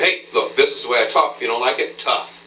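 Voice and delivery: a light demo of a firm, defiant tone; a touch of defiance; affirmative. Shown as a demonstration. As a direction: stand your ground, mildly assertive. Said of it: "more angry".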